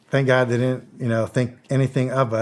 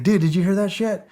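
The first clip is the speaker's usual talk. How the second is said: excited retold question; 8 semitones higher than usual.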